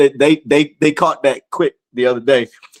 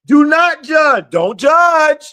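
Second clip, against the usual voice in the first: slow, raised, emphatic proclaiming; preaching scripture; 11 semitones higher, much slower than usual. Shown as a demonstration. Preacher restarting the verse for his viewers, slow and emphatic. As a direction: hammer home the command. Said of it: "Let's start that over".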